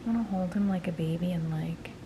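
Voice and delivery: fading to a giggling whisper; soft gushing. Real, not acted. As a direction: melt over the kitten, then whisper. Gushing over kitten, softly.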